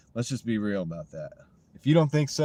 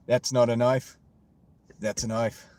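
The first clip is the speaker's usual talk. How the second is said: Crocodile Dundee quote. Retold or imitated. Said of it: "my Australian accent probably sucks".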